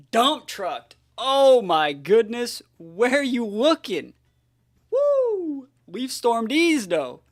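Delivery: loud, high, drawn-out hype; hyped yelling. Real, not acted. Player hyping his Sceptile knockout to viewers, loud cheering. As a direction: celebrate the knockout at full volume.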